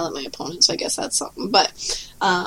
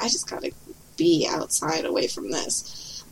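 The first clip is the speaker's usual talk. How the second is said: quiet sigh of escape; 3 semitones lower, 7 dB quieter than usual. Retold or imitated. Player stuck in windowless hall, hushed longing. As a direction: murmur it like you're desperate for air. Quoting herself stuck indoors.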